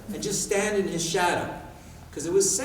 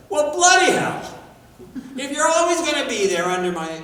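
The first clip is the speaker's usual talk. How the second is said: gruff custodian with a brogue; 11 semitones higher, 10 dB louder than usual. Retold or imitated. Janitor turns on the shadowing boy, loud gruff outburst. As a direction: ham up the blunt janitor's exclamation. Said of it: "strong sort of brogue to his accent".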